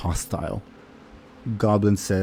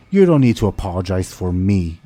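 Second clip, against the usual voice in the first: put-on louder, lightly accented orc Common; 5 dB louder than usual. Younger orc objects to the apology, lightly accented Common. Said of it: "an accented common".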